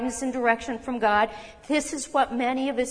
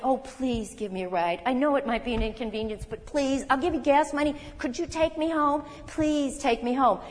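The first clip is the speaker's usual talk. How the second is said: mock begging. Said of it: "followed me around saying".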